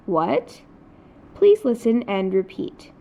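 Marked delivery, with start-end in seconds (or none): 0.0-0.6 "What?" rising at the end like a question. Shown as a demonstration. Teacher compares second tone to English question, rising "What?". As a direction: lift the pitch on "What?". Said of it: "associate this rise in pitch with a question".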